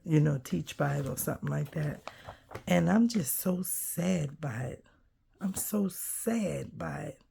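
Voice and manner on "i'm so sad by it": real sadness, whispered and softer; sad whisper. Real, not acted. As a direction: let the voice sink to a sad whisper. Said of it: "I could just cry".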